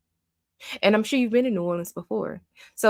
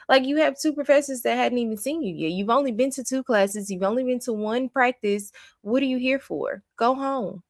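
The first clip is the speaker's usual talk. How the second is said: exasperated; 6 semitones higher than usual. Real, not acted. Exasperated rant at the student.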